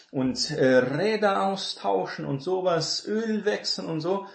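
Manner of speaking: breezy, a touch mocking, as if the job needs no learning; naive would-be mechanic. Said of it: "die denken".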